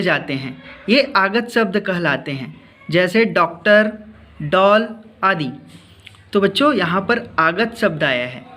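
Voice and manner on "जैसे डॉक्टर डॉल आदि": slow, clear डॉक्टर and डॉल with open ऑ; careful pronunciation. Shown as a demonstration. Teacher to pupils, slowly modelling डॉक्टर and डॉल. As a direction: spell out डॉक्टर, डॉल for the class. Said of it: "सही उच्चारण करना है".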